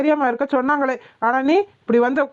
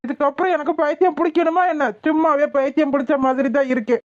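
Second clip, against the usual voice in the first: mildly raised, exasperated retort; frustrated yelling; 2 semitones higher than usual. Acted. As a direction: protest in despair, pitch lifting at first. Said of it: "சும்மா சும்மா கத்தாத மாமா".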